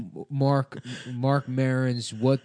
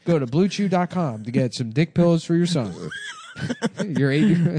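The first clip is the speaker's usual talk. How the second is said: mock commercial; 4 semitones higher than usual. Mock ad for kids' dick pills.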